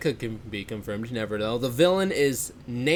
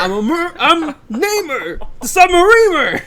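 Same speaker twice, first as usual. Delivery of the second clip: hammy villain intro; 13 semitones higher, 9 dB louder than usual. Pretend. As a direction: announce yourself like a cartoon villain.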